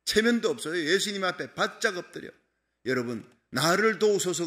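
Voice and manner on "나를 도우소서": earnest plea. Retold or imitated. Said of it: "그러잖아요".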